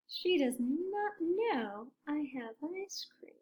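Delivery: slow conspiratorial whisper; sneaky whisper. Acted. Elephant plotting about Piggy, slow sneaky whisper. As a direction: scheme under your breath.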